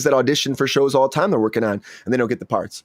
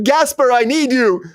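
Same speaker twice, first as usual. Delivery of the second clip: higher, slow royal summons; calling king; 10 semitones higher, 3 dB louder, slower than usual. Retold or imitated. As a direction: call the gasper in like a king. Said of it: "It's like".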